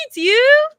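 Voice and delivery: usual speaking voice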